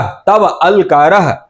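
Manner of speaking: slow, say तव and अलकारः as two separate words; teacher breaking तव अलकारः into parts for students, slowly; split apart slowly. Shown as a demonstration. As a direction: spell out तव अलकारः piece by piece, slowly. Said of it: "मिला दोगे तो बन जाएगा तवलकारः".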